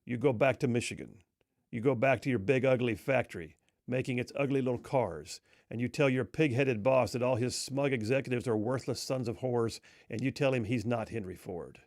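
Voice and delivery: understated contemptuous put-down; condescending. Retold or imitated. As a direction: look down on them, coolly dismissive. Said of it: "in a condescending tone".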